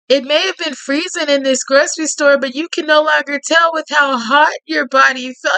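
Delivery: even, lightly dramatic storytelling read; story narration. A narrator's reading. Narrating Tate's menace to the listener in a gentle storyteller read. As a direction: draw the listener into the tale.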